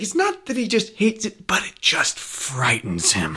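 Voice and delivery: leicht angedeuteter irischer Akzent, erst höher, dann langsam; a lightly imitated Irish brogue, slowing at the end. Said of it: "I wish I could do this great Irish brogue of his".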